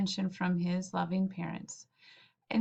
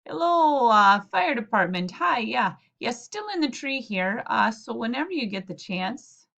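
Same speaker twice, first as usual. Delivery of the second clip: louder, wearier phone call; 5 dB louder than usual. Acted. Murray calling again, louder.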